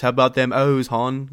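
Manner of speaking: attempted Baltimore accent with rounded O's. Shown as a demonstration. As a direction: roughly imitate Baltimore speech, rounding the O's. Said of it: "the Baltimore accent, where they do the rounded O's".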